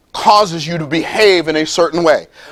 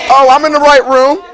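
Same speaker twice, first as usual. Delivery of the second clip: delighted aside; 7 semitones higher, 4 dB louder than usual. Real, not acted. Preacher reacts to crowd's answer.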